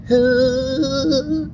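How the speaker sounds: very high, far-off yelled hua; mock Army hua. Trainees mocking the sergeant, high yelled hua. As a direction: shout it from the back of the formation. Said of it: "you would hear from the back".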